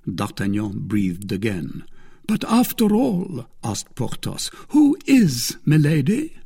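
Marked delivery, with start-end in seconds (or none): 2.3-3.5 high-pitched, puzzled musketeer; Porthos's character voice. Acted. Porthos interrupts to ask about Milady, high character voice. 4.7-6.3 high, louder questioning musketeer; Porthos's character voice. Acted. Porthos asks his friends about Milady, high and loud.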